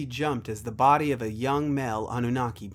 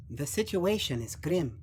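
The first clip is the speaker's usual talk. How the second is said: lightly voiced youth, a little higher; slightly higher, formal young voice; young Odin, grave; 3 semitones higher than usual. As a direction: deliver a grim assessment as a young noble.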